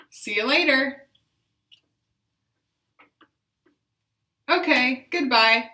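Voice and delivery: loud, deliberate greeting; loud intentional voice. Shown as a demonstration. Therapist modelling functional phrases for repetition, loud. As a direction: project it clearly. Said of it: "loud and intentional voice".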